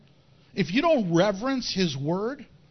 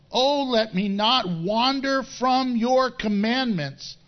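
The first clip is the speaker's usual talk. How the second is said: scripture reading. Acted. Reads Psalm 119 aloud.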